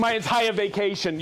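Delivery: laughing admission; sheepish laugh. Real, not acted. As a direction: chuckle through it, owning up. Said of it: "it took you your entire vacation".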